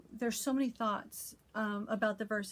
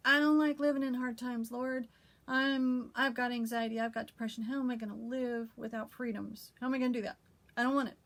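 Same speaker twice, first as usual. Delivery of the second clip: raised, urgent plea to God, louder; a desperate, louder cry for help; pleading prayer; 3 dB louder than usual. Retold or imitated. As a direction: pour out fears to the Lord. Anxious prayer to the Lord retold.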